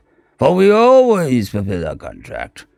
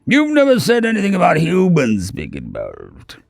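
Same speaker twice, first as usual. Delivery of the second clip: angry and afraid; 6 semitones higher than usual. A narrator's reading. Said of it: "he practically shouted, a mixture of anger and fear".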